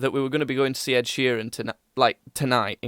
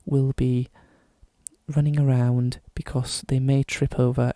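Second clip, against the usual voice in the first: put-on posh British accent. Podcaster playing shipping forecaster turned pilot, posh British accent. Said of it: "a posh British accent".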